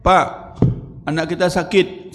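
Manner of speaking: lightly voiced upset wife begging; mild mock crying. Wife phoning her husband, a touch tearful. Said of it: "sambil nangis".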